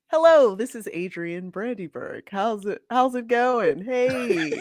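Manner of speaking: customer service voice. Pretend. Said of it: "what's your boogie phone voice?".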